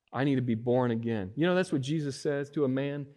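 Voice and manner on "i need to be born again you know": ordinary talk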